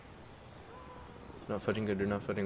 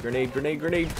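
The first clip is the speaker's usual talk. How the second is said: grenade warning yell; 4 semitones higher, 6 dB louder than usual. Real, not acted. Grenade lands nearby.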